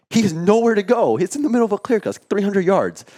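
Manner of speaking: frustrated storyteller, pitch spiking; exasperated. Real, not acted. Exasperated retelling of the hunt.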